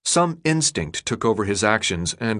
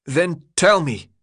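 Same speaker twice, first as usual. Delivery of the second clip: raised pitch, straining to keep it even; calling out; 7 semitones higher, slower than usual. A narrator's reading. New boy demanding answers from the crowd, calling out. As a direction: call out, holding the voice in check. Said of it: "Thomas called out, struggling to keep his voice even".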